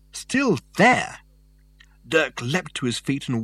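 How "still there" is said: high, startled disbelief; shocked, sharp question; astonished. Acted.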